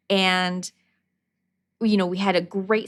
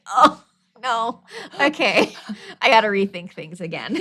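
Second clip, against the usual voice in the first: laughing dismay; 4 dB louder than usual. Retold or imitated. Teacher deflated, laughing.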